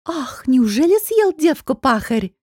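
hammed-up gasp of fake fear; mock fright. A narrator's reading. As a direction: overplay the horror, clearly pretending. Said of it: "воскликнула сделанным испугом".

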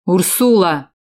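loud angry shout of her name. A narrator's reading. Valker shouting at the silent woman, loud angry call. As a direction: yell her name sharply. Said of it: "закричал Валкер".

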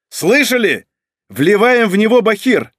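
loud command to the squad; order shouted. Acted. Izukha shouts a new order to subordinates, loud. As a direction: bark the order. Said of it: "выдал новый приказ".

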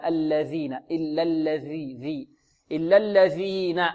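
ذ in الذين with tongue tip clearly out; tongue tip protruded. Shown as a demonstration. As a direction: draw out إلا الذين with a clean interdental "dh". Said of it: "لابد من إبراز طرف اللسان".

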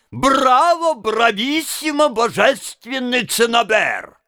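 high, excited cries of bravo; a hint of rapturous applause voice; mock crowd cheering. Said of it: "и кричат".

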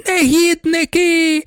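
a drenched baroness shrieks at the pranksters; shrieking. A narrator's reading. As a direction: scream it up at the window. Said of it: "кричала пані Кшишовська".

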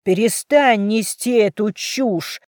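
father slams his daughter's words; furious. Acted. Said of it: "Отец обрушился на дочь с яростью". (отец в ярости обрывает дочь)

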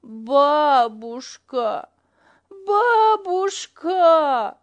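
put-on slow high child's wail; plaintive wailing. A narrator's reading. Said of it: "жалобно причитал малыш".

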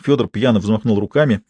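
ordinary delivery

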